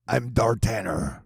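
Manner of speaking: slow, weak action hero voice; a half-hearted movie hero growl. Shown as a demonstration. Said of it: "that wasn't the best action hero voice".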